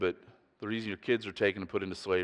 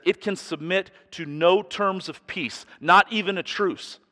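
loud, high, slow proclamation; a preacher thundering an old warning; forceful preaching quote; 10 semitones higher, 6 dB louder, slower than usual. Retold or imitated. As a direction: declare it slowly and with force. Quoted text read with force.

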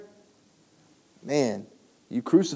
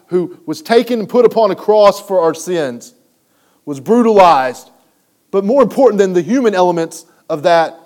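louder, higher preaching build; fiery preaching; 6 semitones higher, 6 dB louder than usual. Acted. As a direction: drive it home like a preacher. Preaching at full force.

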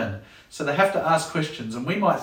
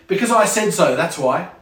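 bossy parent; 3 semitones higher, 5 dB louder than usual. Acted. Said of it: "this is illogical".

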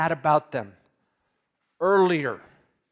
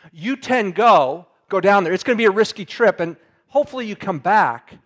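Jacob bossing his sons, louder at first; emphatic Jacob; 3 semitones higher, 6 dB louder than usual. Retold or imitated. Father Jacob sending ten sons to Egypt, emphatic louder order. Jacob voiced in retold story.

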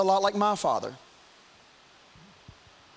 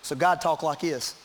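put-on thick southern accent; 4 semitones lower than usual. Preacher shows how God talks like his daddy, thick southern accent. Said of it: "My daddy had a thick accent".

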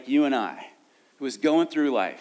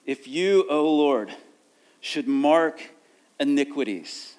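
scripture reading; 3 dB louder, slower than usual. Acted. Declaims the verse.

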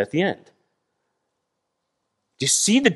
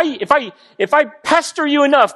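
normal talking voice

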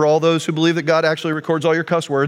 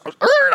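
high mock tire screech; vocal screech of sudden brakes; screech imitation. Imitates tyres as he stops.

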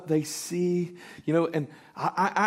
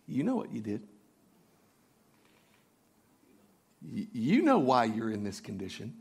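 low, soft accusation; devil bird insinuating; 5 semitones lower, 5 dB quieter than usual. Acted. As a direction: murmur it knowingly, like a nagging accuser. Devil bird's accusing insinuation, hushed.

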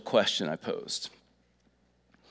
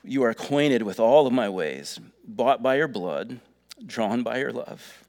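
reading lyrics. Shown as a demonstration. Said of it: "it says this".

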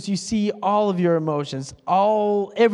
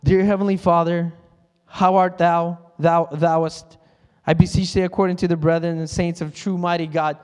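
put-on stiff, old-fashioned prayer voice, a bit louder; mock formal prayer; 4 dB louder than usual. Pastor mocking a churchgoer's formal prayer voice, a bit louder. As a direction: ham up a pompous King James prayer. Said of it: "turn into this lingo".

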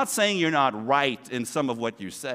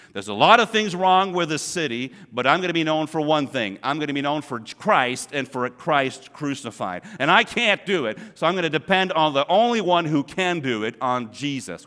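loud, higher, determined vow; resolute declaration; 5 semitones higher, 8 dB louder than usual. Retold or imitated. Paul deciding what he'll be known for, loud resolve. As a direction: proclaim it like a firm vow. Voicing Paul's resolve in Corinth.

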